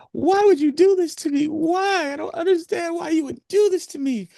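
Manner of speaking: very high mock wail, pleading; hammed-up falsetto wail of a distraught wife; shrill mock cry of a woman yelling at her husband; imitating screaming woman. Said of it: "she's screaming, yelling and crying".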